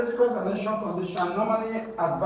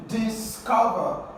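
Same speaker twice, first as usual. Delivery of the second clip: Discover said slowly with weight on COV; stress on second syllable; 4 semitones higher, slower than usual. Shown as a demonstration. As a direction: teach it slowly as dis-COV-er. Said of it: "the second syllable is stressed".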